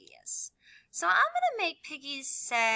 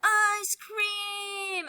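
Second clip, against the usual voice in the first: excited; 11 semitones higher, 5 dB louder than usual. Acted. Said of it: "There we go".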